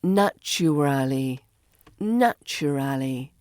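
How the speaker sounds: "Naturally" with every syllable sounded; full form. Shown as a demonstration. Teacher shows learners the long form, "Naturally" fully sounded. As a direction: say "Naturally" carefully, as NATCH-uh-RAL-ee. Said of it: "becomes naturally".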